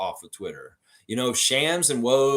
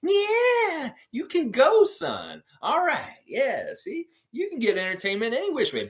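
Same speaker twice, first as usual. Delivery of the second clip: much higher silly puppet voice; beaver puppet voice; 13 semitones higher than usual. Pretend. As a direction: play the goofy puppet letting his son go. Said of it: "entertain you with the beaver puppet".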